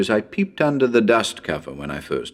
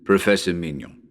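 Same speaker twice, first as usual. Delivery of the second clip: solemn psychic professor. Acted. Professor warning radio listeners about the house, solemn and ominous.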